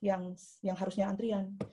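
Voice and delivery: courteous plea settling into soft calm; polite assertive. Acted. Queuer asking the man to follow the line, politely assertive. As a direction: reason gently without provoking conflict. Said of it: "itu orang asertif gitu caranya".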